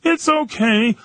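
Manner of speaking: mock obliviously gracious reply; imitating the tank guy. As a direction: play him missing the sarcasm. Tom missing the sarcasm.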